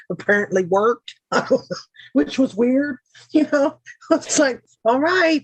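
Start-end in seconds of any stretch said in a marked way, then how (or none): 1.3-1.8 quick bright burst of laughter; short laugh. Real, not acted. Streamer laughing to chat about the bashing that worked, short laugh. Laughing at her own joke. 2.1-5.4 words riding up high on a laugh. Real, not acted. Streamer joking with chat about being abusive, laughing high.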